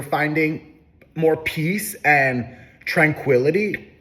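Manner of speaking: talking through a burp; a burp catching the words. Real, not acted. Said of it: "I'm, like, burping".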